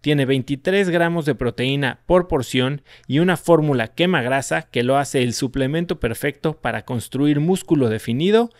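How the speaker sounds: ad read, upbeat and even; lectura de anuncio. Acted. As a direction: sell it like a sponsor spot. (lectura de anuncio animada)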